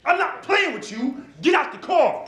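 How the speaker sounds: high, loud yelled order; yelling. Retold or imitated. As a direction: bark it at the car, high and loud. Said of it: "he yelling at the car".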